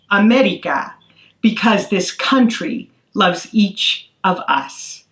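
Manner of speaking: put-on slow, tender reading of a children's poem. Author reads her second poem.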